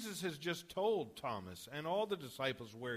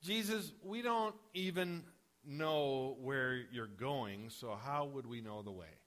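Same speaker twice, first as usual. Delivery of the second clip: exasperated, sarcastic question; a fed-up disciple scoffing at Jesus; mildly sarcastic frustration; frustrated sarcasm; 3 semitones lower, 3 dB quieter than usual. Retold or imitated. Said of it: "kind of a frustrated sarcasm".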